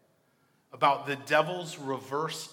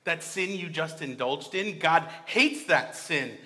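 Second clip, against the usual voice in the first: mock accusing shout; 3 semitones higher, 6 dB louder than usual. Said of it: "evil shouts at you".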